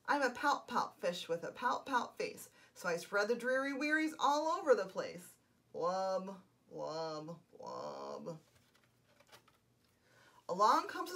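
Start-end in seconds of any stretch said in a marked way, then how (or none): 0.1-8.4 the sulky fish sings his refrain; glum pout fish. Acted. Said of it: "glum, gloomy swimmer".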